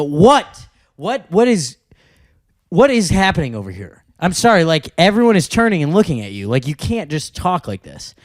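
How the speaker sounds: mildly exasperated retold call-out. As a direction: lightly re-enact challenging a disruptive audience member. Acted scolding of a talking audience member.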